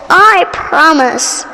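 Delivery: slow grudging promise; reluctant promise. Acted. Poppy promising the frog slowly and grudgingly. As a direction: drag out the promise unwillingly.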